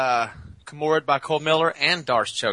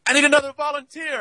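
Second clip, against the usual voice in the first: coach voice; 14 semitones higher than usual. Retold or imitated. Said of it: "he goes".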